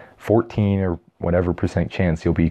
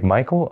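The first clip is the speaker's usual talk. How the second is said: high rising check on the name; questioning; 5 semitones higher than usual. Acted. Others query the mumbled guess, asking in doubt. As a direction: repeat MICHAEL higher, as a question.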